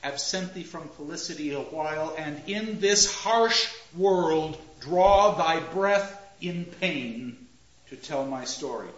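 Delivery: "Absent thee from felicity a while" light, then "harsh world draw thy breath" slow, loud and heavy; line gets heavier. Shown as a demonstration. Teacher showing dying Hamlet's line, the pain heard in its sound. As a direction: let the second half drag with pain. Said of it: "you can hear it in the sound".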